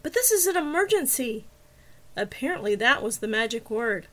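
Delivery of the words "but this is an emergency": is pushed higher and louder; stress on is. A narrator's reading. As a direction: lean on the word is. Insisting on urgency.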